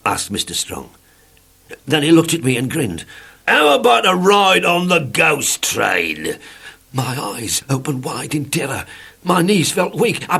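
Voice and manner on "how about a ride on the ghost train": teasing. A narrator's reading. Teasing grin before ghost train.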